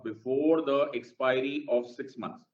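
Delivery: slow, deliberate recap of the line; slow dictation. Shown as a demonstration. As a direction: repeat it slowly for the class. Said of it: "मैंने क्या बोला?".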